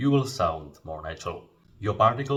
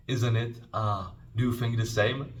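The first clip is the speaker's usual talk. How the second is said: agreement seeking; 4 semitones higher than usual. Shown as a demonstration. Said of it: "basically it means".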